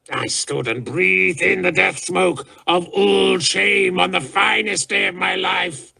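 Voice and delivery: high, ranting fury that savors the cruelty; raving. A narrator's reading. Raving warlord ranting at the crowd of courtiers. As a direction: spit every memory out with hate. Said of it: "still raving".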